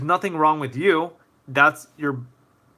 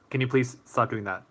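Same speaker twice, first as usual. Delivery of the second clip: calm, respectful request; voice not raised; 3 dB quieter than usual. Shown as a demonstration. Streamer models a respectful request to stop, coolly. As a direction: ask politely, keeping your energy down. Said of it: "without raising your voice or energy".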